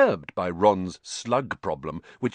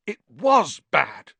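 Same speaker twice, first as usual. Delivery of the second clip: slow, hoarse, higher and louder; 10 semitones higher, 8 dB louder, slower than usual. A narrator's reading. Sick Ron croaking to Hagrid, slow and hoarse. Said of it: "said Ron hoarsely".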